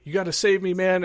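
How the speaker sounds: man running from a cab begging a stranger, mock panic; retold frantic plea. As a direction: beg for rescue, playing the scared guy. Man running up, pleading for help.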